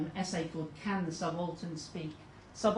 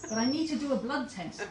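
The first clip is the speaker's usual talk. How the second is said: higher, louder, exasperated doctor voice; pleading doctor; 7 semitones higher, 5 dB louder than usual. Acted. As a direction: insist on the blood test, at wit's end.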